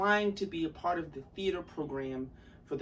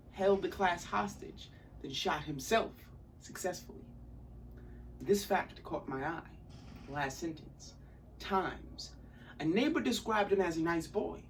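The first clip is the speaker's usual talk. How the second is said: lightly theatrical audition monologue; measured storytelling with acted emphasis; dramatic monologue. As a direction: tell it as a stage monologue, with deliberate pauses. Performs audition monologue as Paul.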